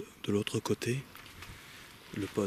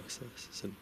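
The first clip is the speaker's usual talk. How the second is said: whispering; 2 semitones higher, 12 dB quieter than usual. Real, not acted. Startled by noise in woods.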